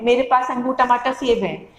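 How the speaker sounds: "अंगूर, टमाटर, सेब" rushed with no pauses at the commas; run together. Shown as a demonstration. Teacher shows students the wrong way to read commas, run together. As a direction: rattle the list off without stopping. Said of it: "तो आपको कुछ समझ में ही नहीं आएगा".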